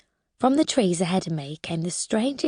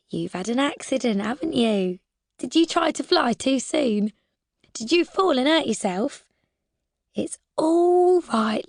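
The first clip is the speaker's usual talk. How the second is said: gentle, rising, higher coo; soothing carer's voice; 4 semitones higher than usual. Acted. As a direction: croon to it like a sick child at bedtime. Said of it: "trying to use the voice Lily Daisy does".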